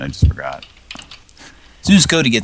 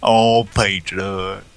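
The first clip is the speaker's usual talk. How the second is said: swooning sigh; slower than usual. Pretend. Swooning mock romance over pizza.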